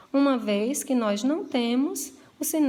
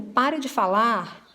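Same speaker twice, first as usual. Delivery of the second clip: severe order. Shown as a demonstration. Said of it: "possivelmente numa maneira mais severa".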